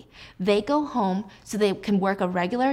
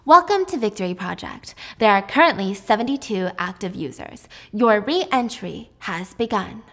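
system voice; 4 dB louder than usual. Retold or imitated. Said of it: "he hears the woman's voice".

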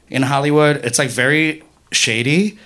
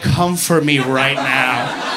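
menacing dare; 3 semitones lower, slower than usual. Acted. Acts daring racists to attack.

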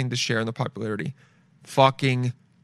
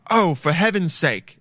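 put-on slow, prim old-timey gasp; mock prim exclaim; 4 semitones higher, slower than usual. Townsperson feigning shock at a murder, prim old-timey gasp. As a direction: clutch your pearls in mock shock. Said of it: "And you'd say it like that".

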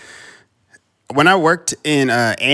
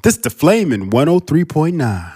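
louder hyped station ident; radio announcer voice; 6 semitones higher, 4 dB louder than usual. Retold or imitated. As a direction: boom it out like a DJ drop.

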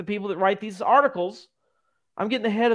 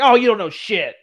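raised, louder mock put-down; mock berating; 3 semitones higher, 5 dB louder than usual. Podcaster pretending to berate street interviewees, mock scolding. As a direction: playfully berate a passer-by. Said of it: "just berate them".

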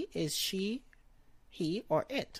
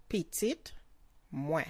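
word by word. Shown as a demonstration. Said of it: "Moi comes after".

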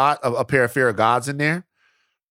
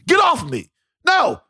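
mock brush-off. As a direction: shoo them away, laughing it off. Brushing off pushy strangers.

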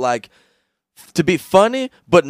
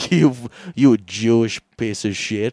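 mock Indian accent; 3 semitones lower than usual. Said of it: "Indian Nazi, he's like".

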